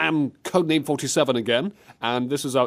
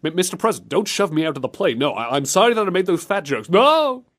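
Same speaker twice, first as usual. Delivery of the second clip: playful escalating panic; mock panicked pleading; 4 semitones higher than usual. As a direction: beg for your life in jest. Acted plea before being thrown out.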